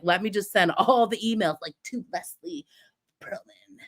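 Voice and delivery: fading into a creepy whisper; mock creepy whisper. Mocking freaks who email her, sinking to a whisper. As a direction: hiss the name like a stalker. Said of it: "all you freaks that are just like".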